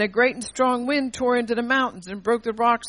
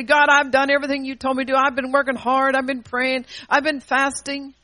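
mock self-righteous prayer; 3 semitones higher, 3 dB louder than usual.

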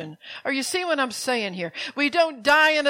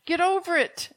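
blunt, firm dismissal; harsh; 5 semitones higher than usual. Real, not acted. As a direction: tell them bluntly to get over it. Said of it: "I know I sound harsh".

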